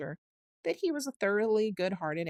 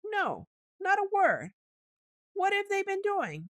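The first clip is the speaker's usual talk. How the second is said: much higher, slow, trembling voice; 6 dB louder than usual. A narrator's reading. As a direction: quaver each word in fright. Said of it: "trembling in every limb".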